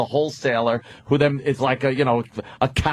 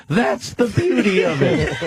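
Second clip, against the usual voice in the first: Mister Haney; 7 semitones higher than usual. Acted. Huckster dodging a question about installing it, mock salesman. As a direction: answer as a hammed-up peddler, pitched up. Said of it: "Mister Haney".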